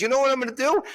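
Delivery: imitated angry woman; menacing. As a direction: taunt before acting. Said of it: "she goes".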